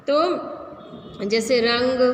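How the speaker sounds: रंग drawn out slowly with a nasal अंग sound; slow demo of रंग. Shown as a demonstration. Teacher showing students the anusvar, slowly. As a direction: stretch रंग so the nasal ंग rings. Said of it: "जैसे अंगूर या कहीं पे भी".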